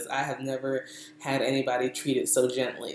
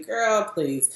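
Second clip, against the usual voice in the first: higher-pitched dismissive mock retort; condescending; 6 semitones higher than usual. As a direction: imitate a hairdresser brushing off a client. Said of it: "like, kinda condescending".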